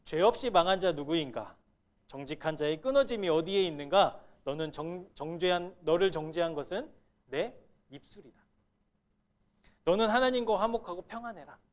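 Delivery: loud, stern reproach as the friend Eliphaz; accusing rebuke. Retold or imitated. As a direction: friend lecturing the suffering Job, loud and stern. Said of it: "엘리바스는 뭐라고 얘기하고 있느냐".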